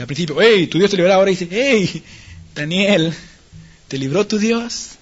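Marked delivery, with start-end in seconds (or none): 0.4-1.1 louder, brisk confident assurance. Acted. King Darío to Daniel at first, confident assurance. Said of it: "la actitud de este individuo cambia". 1.5-4.9 slow, hesitant questioning call; doubtful calling. Acted. King Darío calls into the lions' pit, doubtful. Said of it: "Había duda en él".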